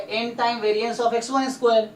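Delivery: slow, each word set apart; dictating pace; slow dictation. Shown as a demonstration. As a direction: dictate so the student can write it down. Tutor repeats formula for student.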